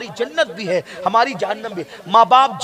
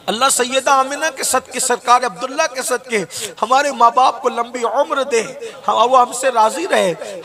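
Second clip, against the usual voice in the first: raised, pleading dua to Allah; fervent prayer; 4 semitones higher than usual. Acted. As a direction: lift the voice in supplication, slowing on the last words. Dua after the story. (ऊँची आवाज़ में जोशीली दुआ)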